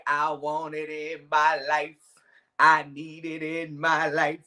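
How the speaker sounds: slow, lightly imitated rapper's hook. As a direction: drag it out like a quoted lyric. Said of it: "I'm like Juvie".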